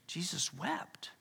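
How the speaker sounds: slow, whispered Jesus wept. Acted. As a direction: breathe the words out slowly in a whisper. Repeating the verse for weight.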